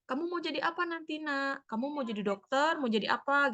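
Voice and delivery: a hint of a tender mother; gentle parent. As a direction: coax the child softly. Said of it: "kepada seorang anak".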